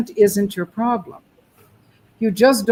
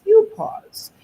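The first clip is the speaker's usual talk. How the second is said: rhythm demo; 12 semitones higher, 4 dB louder than usual. Shown as a demonstration. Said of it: "When I pause".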